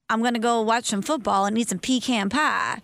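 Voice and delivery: lightly put-on Texas accent; imitating a Texan's Southern accent; mock Southern drawl. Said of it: "sounds like a Southern drawl".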